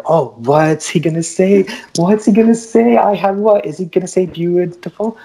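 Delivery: put-on high, eager, breathless girl's voice; excited girl. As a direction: play the girl, thrilled and expecting. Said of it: "she's getting all excited".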